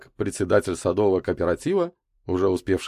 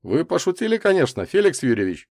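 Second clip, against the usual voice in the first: higher, tentative question; cautious question; 10 semitones higher, 4 dB louder than usual. A narrator's reading. Котов asks Микульский about his warning, cautious. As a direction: check gingerly that it was a joke. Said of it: "осторожно спросил последний".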